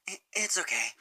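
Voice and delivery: forced reassurance, a little high; faux reassuring. Sunset brushing off Fluttershy's apology, faux reassuring. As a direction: pretend it's fine. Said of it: "in a faux reassuring way".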